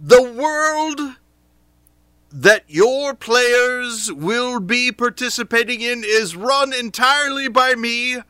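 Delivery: booming, slow, high declaration; grandiose Dungeon Master. Pretend. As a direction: proclaim it like an all-powerful ruler. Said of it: "And I say".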